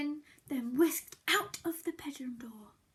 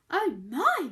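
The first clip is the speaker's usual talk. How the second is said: mild surprise; 6 dB louder than usual. Acted. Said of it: "Mouse said".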